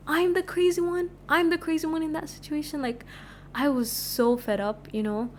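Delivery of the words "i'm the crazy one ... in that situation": indignant disbelief. Real, not acted. Outraged rhetorical question.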